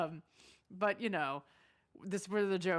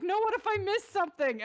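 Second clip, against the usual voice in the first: mimicked whine; 10 semitones higher, 5 dB louder than usual. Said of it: "She's like".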